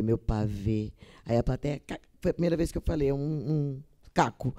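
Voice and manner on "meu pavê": a low, drawn-out pet name; low slow tender line. Acted. Actress ad-libs a pet name to her stage partner, low and slow. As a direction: drop low and linger on pavê. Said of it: "dei uma pausa, falei".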